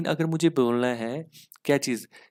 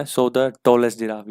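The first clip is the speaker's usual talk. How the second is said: slow emphatic reading; 6 dB louder, much slower than usual. Shown as a demonstration. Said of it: "reading the correct phrase".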